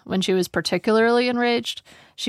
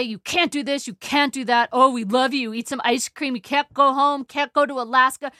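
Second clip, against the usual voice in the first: put-on ranting old father; 7 semitones higher than usual.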